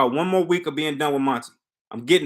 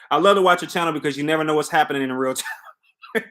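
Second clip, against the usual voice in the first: laughing through words; faster than usual. Real, not acted. Laughing while rephrasing a comment.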